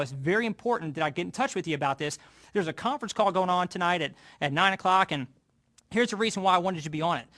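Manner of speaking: earnest, persuasive phone pitch; promoting the call. Shown as a demonstration. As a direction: sell Bob on why he can't miss it. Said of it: "So if I'm gonna promote the call".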